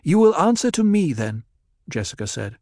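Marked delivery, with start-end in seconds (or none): 0.0-1.4 high, louder, with a whine and a catch at the end; twisting whining tone. Acted. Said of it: "she pitched her voice in a twisting tone with a little whine".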